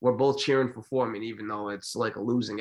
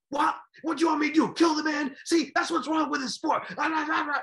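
high, loud and outraged; indignant yell; 5 dB louder than usual. Retold or imitated. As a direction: throw the question back, incredulous. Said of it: "he starts yelling".

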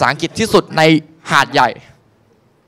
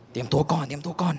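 ordinary talk, nothing marked

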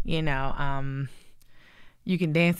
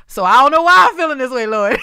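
laughing through the words, louder; 8 semitones higher, 9 dB louder than usual. Real, not acted. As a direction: spill it out mid-laugh. Laughing confession.

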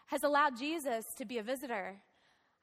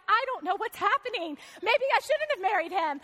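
freaked out; 4 semitones higher, 4 dB louder than usual. Retold or imitated. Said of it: "I was really freaked out".

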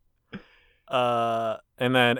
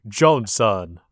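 slow, loud exaggerated Japanese accent; 5 dB louder, much slower than usual. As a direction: ham up a stereotyped Japanese accent. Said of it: "a really offensive Japanese accent".

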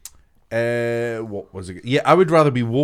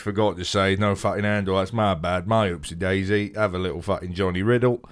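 1 impression of Elliot; 4 semitones lower than usual. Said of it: "That's the worst impression I've ever heard".

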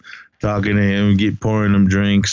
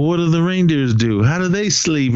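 higher, eager child's voice imitation; mock curious kid; 6 semitones higher than usual. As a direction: ask it like a wide-eyed little kid. Kid asking crazy questions.

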